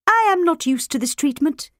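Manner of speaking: feeble tired rat complaining; weak, tired voice. A narrator's reading. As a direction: whine it out wearily. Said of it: "in a weak, tired voice".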